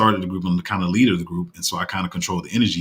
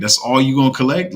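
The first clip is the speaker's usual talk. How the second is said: incredulous challenge; 6 semitones higher, 7 dB louder than usual. Retold or imitated. Retelling his challenge to group member.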